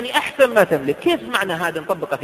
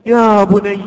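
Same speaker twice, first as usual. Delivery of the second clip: نداء حنون; 8 dB louder, much slower than usual. Pretend. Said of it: "إيش يقول له".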